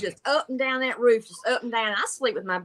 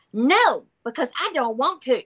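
put-on defiant young child, pitched up; sassy child voice; 4 semitones higher, 4 dB louder than usual. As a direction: whine it like a defiant kid. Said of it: "he says".

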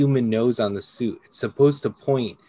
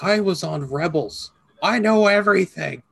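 higher-pitched mocking brag; mock boast; 5 semitones higher than usual. Podcaster mimicking actor bragging to fans, mock boast. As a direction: imitate a know-it-all, pitch climbing. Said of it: "called all Star Wars fans idiots, and he's just like".

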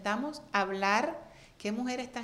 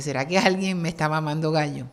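mock little voice; 4 semitones lower, 7 dB louder than usual. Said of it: "fíjate tú la vocecita".

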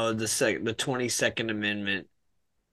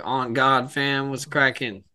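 street slang greeting, a touch louder; casual street slang; 4 semitones higher, 5 dB louder than usual. Retold or imitated. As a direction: toss it off like a cool guy. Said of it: "he's like".

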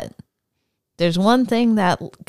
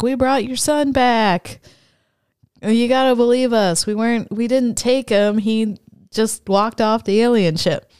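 higher-pitched mock alien voice; scary alien voice; 5 semitones higher than usual. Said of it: "big scary alien voice is talking".

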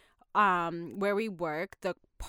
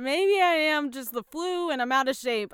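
exasperated; 6 semitones higher, 5 dB louder than usual. Retold or imitated. Retelling own confused thoughts.

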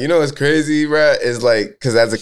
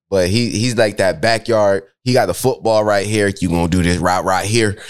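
put-on Mississippi accent; 5 semitones lower than usual. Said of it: "That's your Mississippi accent".

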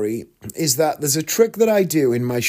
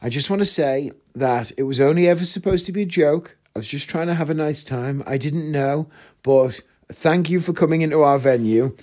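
mock nervous placating. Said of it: "And I go".

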